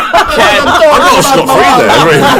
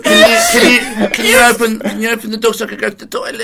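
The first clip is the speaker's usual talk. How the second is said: put-on seven-year-old; 2 semitones higher than usual. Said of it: "as if you were seven-year-olds".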